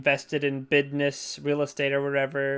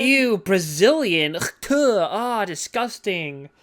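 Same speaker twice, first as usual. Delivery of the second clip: mock disgust; 4 semitones higher, slower than usual. Mocking her disgust.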